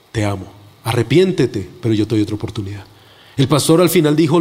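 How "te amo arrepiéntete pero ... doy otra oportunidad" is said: lower, gentle divine voice; a touch of solemn tenderness, pitched down; tender assurance. Retold or imitated. Preacher voices Jesus forgiving him, tender and low. Voicing Jesus's loving words.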